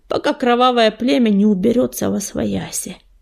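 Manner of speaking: ordinary delivery, nothing marked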